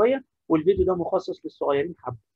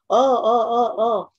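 high, excited student cry; a kid waving to answer; eager student; 5 semitones higher, 4 dB louder than usual. Pretend. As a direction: call out like a keen pupil. Teacher voicing eager student.

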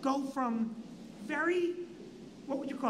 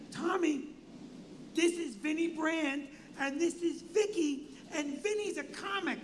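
Dick Smothers; 4 semitones higher than usual. Retold or imitated. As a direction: introduce them in a raised, deliberate, weird voice. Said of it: "how the Smothers Brothers are talking".

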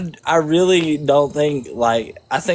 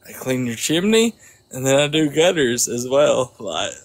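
put-on Southern accent. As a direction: lay on a Georgia Southern accent. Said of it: "I got that southern accent".

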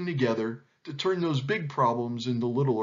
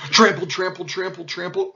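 loud, rhythmic, higher-pitched stomping words; trampling sound effect; 5 semitones higher, 7 dB louder than usual. A narrator's reading. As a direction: pound out each word like running feet. Imitating stampeding feet in story.

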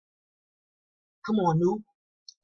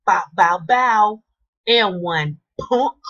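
loud celebration; 3 semitones higher, 8 dB louder, slower than usual. Real, not acted. Celebrating a made basket.

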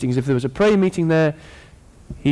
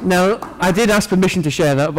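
laughing. Real, not acted. Laughing after announcement.

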